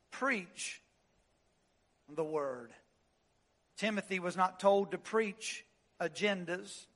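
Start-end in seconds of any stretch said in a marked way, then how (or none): 0.1-2.7 softer still, low and solemn; repeated hush. Shown as a demonstration. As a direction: let it settle quietly.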